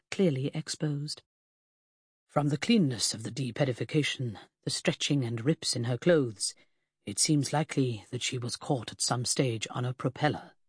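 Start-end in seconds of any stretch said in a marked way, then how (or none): 2.3-10.5 low, muffled through a cloth; distant muffled voice. Acted. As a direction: speak as if behind a cloth over the mouth. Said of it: "his voice more distant than the covering".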